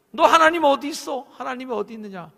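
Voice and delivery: lightly voiced scoffing crowd; mocking taunt. People taunting the psalmist all day, lightly mocking. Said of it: "사람들이 종일 내게 하는 말이".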